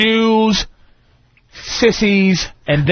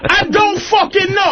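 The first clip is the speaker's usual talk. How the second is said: higher, hammed-up irritated reply; mock exasperated husband; 9 semitones higher than usual. Husband answering jealous wife again, higher mock exasperation. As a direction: say it again, just as fed up.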